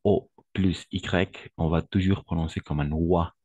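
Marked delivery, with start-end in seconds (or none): 0.0-1.5 slow teacher spelling of O plus Y; letters O plus Y named one by one; spelled out slowly. Shown as a demonstration. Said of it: "Au niveau de la prononciation".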